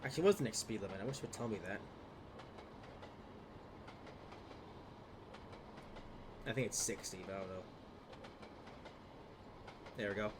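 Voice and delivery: blocked nose from a cold; stuffy sick voice. Real, not acted. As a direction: talk through a stuffed-up nose. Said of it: "if I sound a little bit sick today".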